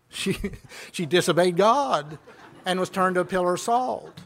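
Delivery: chuckling through the words; amused retold reply; laughing while answering. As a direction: say it with a laugh breaking in. Retelling his answer, laughing through it.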